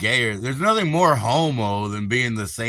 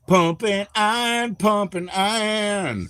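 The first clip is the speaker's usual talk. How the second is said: Arnold impression; 9 semitones higher, slower than usual. Quoting Arnold movie title.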